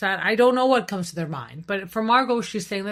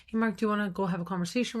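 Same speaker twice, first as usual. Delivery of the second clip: gentle invitation; 3 semitones higher, faster than usual. Shown as a demonstration. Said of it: "delivery also helps".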